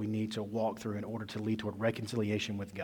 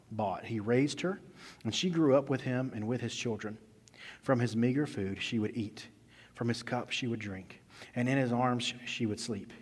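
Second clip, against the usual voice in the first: rising, louder opening of a Bible reading; scripture reading; 3 dB louder than usual. Acted. Preacher reading Nathan's parable to the church, measured and firm. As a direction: read the parable to the congregation. Reads the Nathan passage aloud.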